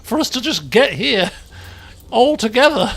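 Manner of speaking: high, loud, amused exclamation; laughing disbelief. Real, not acted. Laughing disbelief at time taken.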